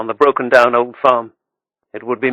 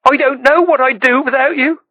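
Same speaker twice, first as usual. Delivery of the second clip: put-on higher, girlish and tearful; grateful, close to tears; a touch of tears in a girl's voice; 13 semitones higher than usual. A narrator's reading. Jenny crying again.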